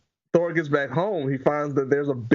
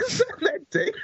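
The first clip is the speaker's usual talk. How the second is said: laughing. Retold or imitated. Repeating the surprise, laughing.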